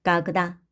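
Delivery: 까그다 with o said as a; unstressed o as a. Shown as a demonstration. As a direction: say 까그다, stress on the final a. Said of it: "강세 없는 오는 아로 발음을 한다".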